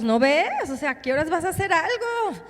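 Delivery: mock exasperated demand; acted-out pleading complaint; impatient reproach. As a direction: voice the impatient followers, pitch jumping up. Voicing people's reproach to Jesus.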